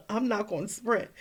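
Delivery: laughing through the words; laughing half-joking no; laughing refusal. Retold or imitated. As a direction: giggle as you refuse to sprint. Laughing refusal while running.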